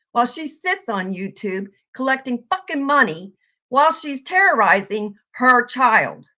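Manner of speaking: loud, furious rant; real angry yelling. Real, not acted. Streamer yelling at a rival vlogger over her child. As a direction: let the anger boil over into shouting. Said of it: "I am sorry for yelling".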